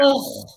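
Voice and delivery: exasperated "ugh"; disgusted groan. Real, not acted. Co-host reacting to praise of DeSantis, disgusted groan. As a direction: groan in distaste.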